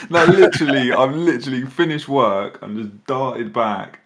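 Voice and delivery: hyped up and fast; buzzing with too much caffeine; wired. Real, not acted. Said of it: "you sound very wired".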